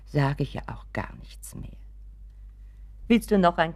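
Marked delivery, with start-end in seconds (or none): 0.0-1.8 hushed, backing down; submissive whisper. Acted. Mother yields to Richard, whispering meekly. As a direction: whisper it, giving up the argument.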